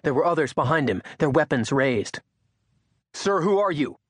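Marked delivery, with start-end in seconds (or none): 3.1-4.0 nervous, arrogant soldier. Acted. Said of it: "nervousness in the soldier's voice".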